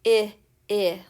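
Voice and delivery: repeated short "I" as in igloo; short i sound. Shown as a demonstration. Teacher to kids, demoing short I. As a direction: clip the "I" short. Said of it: "The short I sound says".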